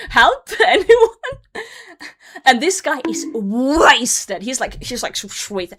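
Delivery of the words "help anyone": high, drawn-out cry for help through laughter; mock panic. Streamer retells panicking before a yelling stranger, mock-panicked and laughing. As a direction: laughingly plead for rescue. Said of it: "I'm, like, panic mode".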